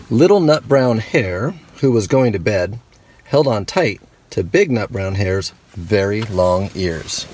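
gentle storybook read-aloud; reading to children. A narrator's reading. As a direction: tell it like a bedtime story to kids. Reads picture book to kids.

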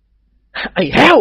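drawn-out high yell at the servant; shouting at servant. A narrator's reading. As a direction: bellow his name slowly. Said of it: "ท่านเจ้าคุณตะโกนลั่น". (เจ้าคุณตะโกนเรียกไอ้แห้วเสียงดังลากยาว)

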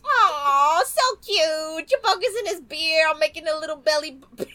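Linda Belcher impression. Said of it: "a Linda Belcher impression".

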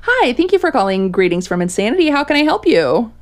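chirpy retail greeting; customer service voice. Shown as a demonstration. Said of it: "That's my customer service voice".

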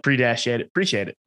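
APPRECIATE cut down to "pre-shate"; shortened pronunciation. Shown as a demonstration. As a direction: say APPRECIATE without its first vowel. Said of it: "It's just like".

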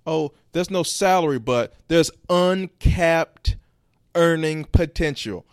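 high, loud, drawn-out recruiter hype; mock sales pitch. Podcaster imitating recruiters pitching a commission-only job, mock hype. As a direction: oversell it mockingly, stretching the buzzwords slowly.

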